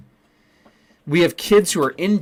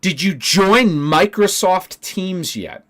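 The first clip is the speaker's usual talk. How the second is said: higher, louder snide bureaucrat voice; mock assistant director; 6 semitones higher, 5 dB louder, slower than usual. Teacher mocking the assistant director's useless reply, snide mimicry. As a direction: parrot her back in a snotty higher voice. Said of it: "And your response is".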